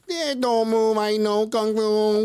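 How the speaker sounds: high, cocky bravado; mock action-hero swagger; cocky tough guy. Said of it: "walk up like".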